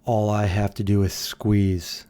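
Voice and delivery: put-on slow, half-hearted Russian accent; drawn-out mock Russian, loosely done; attempted Russian accent. Streamer voices a line for a chat viewer, attempted Russian accent. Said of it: "The voice in your head has a Russian accent".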